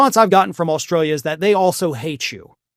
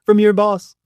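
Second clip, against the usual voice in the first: lightly voiced gloating; a mild put-on Trump boast; mock bragging. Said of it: "he immediately goes to bragging".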